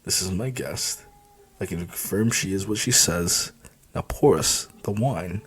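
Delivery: a hint of a grumbled warning. The boss grumbles at the bartender, quietly. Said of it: "Morgan grumbled".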